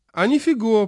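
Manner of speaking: put-on high, lisping, mumbled old man; toothless mumble. A narrator's reading. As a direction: mumble it with no teeth. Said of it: "прошамкал председатель".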